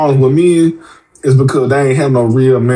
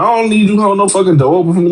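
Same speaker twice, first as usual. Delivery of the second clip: quicker, more insistent imitation; mock snippy refusal with extra bite; sharper mock retort; 4 semitones higher, faster than usual. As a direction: press it harder and faster. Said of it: "she was like".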